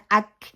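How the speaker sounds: اک with hamza closed straight onto kaf; crisp joined اک. Shown as a demonstration. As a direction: say اک as one closed syllable, no bounce on the k. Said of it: "حمزہ کو کاف کے ساتھ ملانا ہے".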